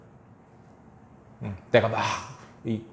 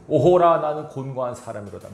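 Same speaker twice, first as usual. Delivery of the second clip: anguished lament; 5 dB louder than usual. Retold or imitated. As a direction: voice Paul's anguish, crying out then collapsing. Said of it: "바울이 고-, 고통하고 있습니다, 지금". (오호라를 높고 크게 외치고 뒷부분은 힘없이 가라앉게)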